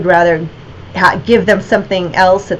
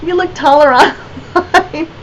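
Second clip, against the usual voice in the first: higher, lightly voiced gushing visitor with a laugh; surprised fan; 8 semitones higher than usual. Visiting collector meeting the artist in the gallery, mock surprise. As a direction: imitate a collector meeting her in person. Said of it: "So they'd say".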